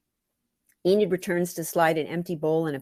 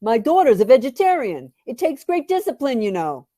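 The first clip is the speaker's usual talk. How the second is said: proud, louder, higher boast; gloating dad; 6 semitones higher, 6 dB louder than usual. Retold or imitated. Dad gloating to the waitress about Sarah, higher and louder. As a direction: brag like a proud father. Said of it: "he'd gloat to the waitress".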